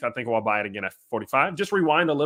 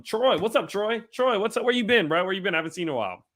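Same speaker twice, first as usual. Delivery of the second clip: excited greeting; 7 semitones higher than usual. Real, not acted. Greeting a returning chat regular.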